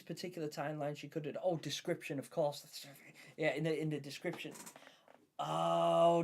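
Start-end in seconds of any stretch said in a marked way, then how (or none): 5.4-6.2 loud sudden oh; surprised oh. Real, not acted. Streamer realising chat's point, surprised oh.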